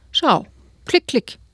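high, lightly voiced grandma clicking; a hint of a fussy old lady; sweet old lady. Grandma voice in read story.

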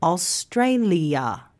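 slow "Australia", every syllable clear; Aus-tra-li-a spelt out by sound; slow model word. Shown as a demonstration. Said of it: "four syllables".

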